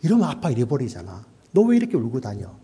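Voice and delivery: mildly scolding dad, imitated; 목소리 커진 아버지. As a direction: chide a lost child in a mock fatherly voice. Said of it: "우리 아버지들도 목소리 커지잖아요". (가볍게 야단치는 아버지 흉내)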